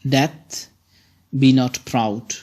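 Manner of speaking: measured reading of the sonnet's opening; poem recitation. Shown as a demonstration. Teacher reads the first lines to students as verse. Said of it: "I will read, uh, the lines".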